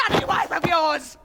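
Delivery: high, yelled jibe; bitter, shouted accusation; angry shout. Acted. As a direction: spit it out at full pitch. Jealous quarrel.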